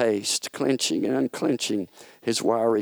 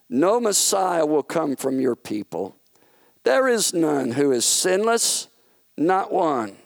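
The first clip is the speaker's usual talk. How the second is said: lightly voiced firm king, a bit raised; a hint of a stern ruler putting him in place; God the King; 3 semitones higher than usual. God telling Satan his plans have failed, lightly voiced.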